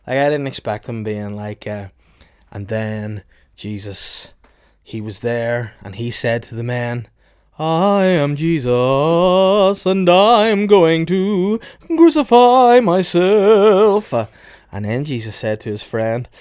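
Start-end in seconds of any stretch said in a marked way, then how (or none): 2.5-14.1 slow, booming sermon voice, high and loud; mock preacher voice. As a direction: ham it up like a pompous priest.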